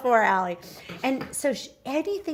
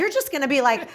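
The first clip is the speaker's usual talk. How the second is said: defeated whimper; 3 semitones higher, 6 dB louder, faster than usual. Retold or imitated. Mock defeated voice.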